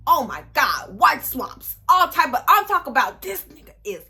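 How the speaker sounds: rising high and loud in disbelief; shocked disbelief. Real, not acted. Telling viewers what the search on him turned up, building shock.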